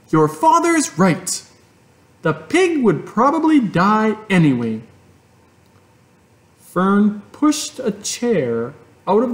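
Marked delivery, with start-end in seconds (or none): 0.1-4.8 higher mother, lightly voiced; resigned mother. A narrator's reading. Mother backs the father to Fern, lightly voiced.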